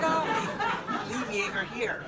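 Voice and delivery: Oh squealed high and bright; high sweet voice. Retold or imitated. Leaving the boyfriend's dog with her, squealed high. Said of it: "I said".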